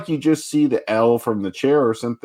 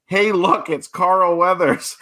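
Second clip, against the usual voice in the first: shouting; 7 semitones higher, slower than usual. Retold or imitated. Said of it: "shouts at the top of his lungs".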